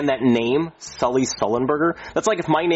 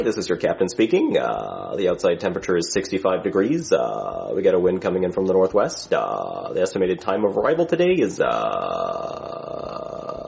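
captain's PA drone with long low uhs; pilot intercom voice; 3 semitones lower than usual. Acted. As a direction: mumble the announcement like a bored pilot on the intercom. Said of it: "We have to talk like that".

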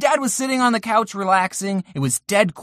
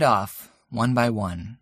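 mock emotional; 11 semitones lower, 5 dB quieter than usual. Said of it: "I'm getting really emotional".

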